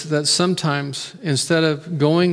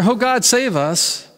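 quick emergency prayer; 5 semitones higher, slower than usual. Pretend. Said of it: "shoot up an emergency prayer".

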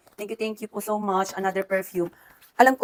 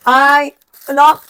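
sudden loud, higher gasp of delight; delighted surprise; 6 semitones higher, 13 dB louder, slower than usual. Real, not acted. Vlogger unwrapping a friend's gift, loud delighted surprise. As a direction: burst out in happy surprise.

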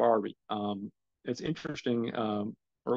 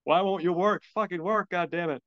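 frustrated cursing; 5 semitones higher, 4 dB louder than usual. Retold or imitated. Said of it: "It's like".

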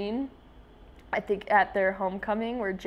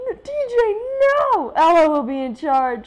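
voiced mom; 8 semitones higher, 10 dB louder than usual. Mom reading out orders to her kids, bossy and loud. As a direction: play the strict mom laying down rules. Reading comic mom's lines aloud.

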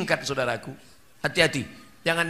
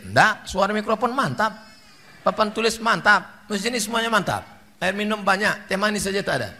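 sarcastic dig; 3 semitones higher than usual. Retold or imitated. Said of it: "Ustadz nyindir".

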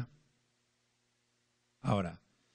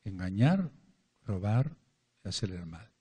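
each word "Engañar", "robar" set apart by a pause, dropping away on "y hacer el mal"; emphatic list; 3 semitones lower than usual. Shown as a demonstration. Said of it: "repeated list". (enumerando con pausas)

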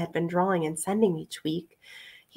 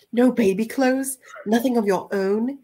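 rising voice; 4 semitones higher than usual. A narrator's reading. Pete learning Rosie owns nothing, voice rising. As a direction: pitch climbing in disbelief. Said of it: "He wished his voice was not rising".

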